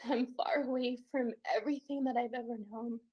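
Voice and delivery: breathless tearful whisper; whispered through tears. Real, not acted. Alone and overwhelmed, whispering through tears. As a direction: whisper it, choking back tears.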